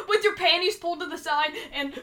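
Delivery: words breaking up with laughter; real laughing fit. Real, not acted. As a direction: squeeze it out through giggles. Cracking up at the joke.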